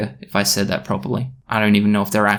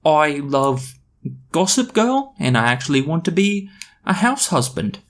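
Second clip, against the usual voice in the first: hesitant, halting admission with high lifts; slow confession; 4 semitones higher than usual. Acted. British confessing to the party, slowly. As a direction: confess it slowly, pausing between phrases. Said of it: "He shrugged and said slowly".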